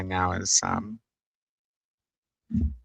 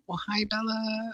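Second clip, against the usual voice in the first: whispered greeting; 13 semitones higher, slower than usual. Real, not acted. Greeting viewer Bella who just arrived, whispered. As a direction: whisper hello gently.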